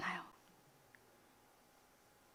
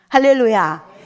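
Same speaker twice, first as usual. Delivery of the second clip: loud exultant hallelujah; joyful shout; 8 dB louder, slower than usual. Real, not acted. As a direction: call it out to the congregation. Preacher calls out to congregation.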